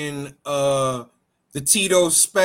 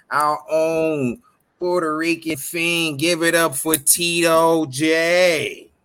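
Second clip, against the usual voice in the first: ring announcer. Acted. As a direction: stretch every word like a ring announcer. Slowed hype intro.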